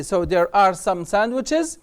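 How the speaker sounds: very slow, clear drill; slow model sentence. Shown as a demonstration. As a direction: stretch the sentence out for the class. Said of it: "teacher drill". (جملة نموذجية ببطء شديد)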